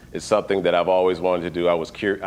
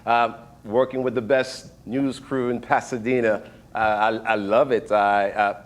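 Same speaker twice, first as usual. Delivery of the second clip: tentative British accent with hesitations; attempted British accent. Shown as a demonstration. Cameraman trying it early in the morning, halting British accent. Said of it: "to have a British accent, but I'll try".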